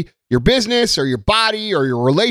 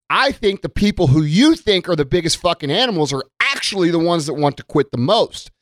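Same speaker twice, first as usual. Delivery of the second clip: ordinary talk, nothing marked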